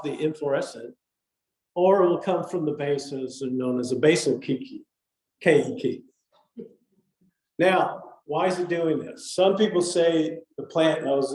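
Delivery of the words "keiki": "Keiki" as KAY-ee-kee; Hawaiian pronunciation. Shown as a demonstration. Correcting a slip into Kiki, "Keiki" as KAY-ee-kee. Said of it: "if you run this a native Hawaiian".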